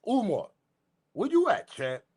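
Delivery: high, sing-song mocking call to a no-show. Real, not acted. Vlogger taunting Doctor Umar to show up, high mocking call. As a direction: call out for him like he's hiding.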